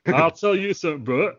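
Southern Hulk Hogan. Pretend. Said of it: "Southern Hulk Hogan".

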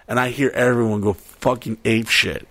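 ordinary talk

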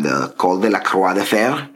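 Col de la Croix de Fer said the French way; French name. Real, not acted. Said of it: "however that's pronounced".

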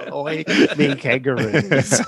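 slow, hammed-up mock Australian accent; Australian accent attempt. Shown as a demonstration. Host copying cohost's attempt at Australian, slow mock accent. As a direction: draw it out in a badly faked Australian accent. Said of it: "I think I could do one".

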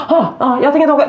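high mock-furious refusal; hammed-up anger with laughter underneath; angry child imitation. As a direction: imitate a kid refusing in a huff. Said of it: "Du vet, och så arg".

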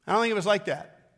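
normal talking voice

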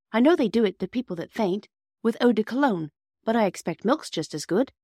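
put-on high, lively child's explanation; Bobby. A narrator's reading. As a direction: offer the remedy eagerly. Narrator voices Bobby.

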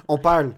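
"parle" with the R barely sounded; R swallowed. Shown as a demonstration. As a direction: say "parle" with a slack tongue, dropping the R. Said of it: "on dit même pas le R". (« parle » sans prononcer le R)

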